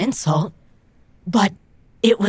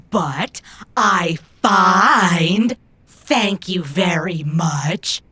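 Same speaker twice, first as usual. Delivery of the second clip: sarcastic aside; much slower than usual. Acted. Mocking the find accusation.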